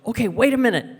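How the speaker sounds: string the caller along; roommate stalling. Retold or imitated. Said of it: "she'd go".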